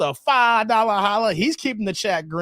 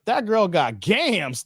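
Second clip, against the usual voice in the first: cookie voice; much slower than usual. Shown as a demonstration. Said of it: "In my cookie voice".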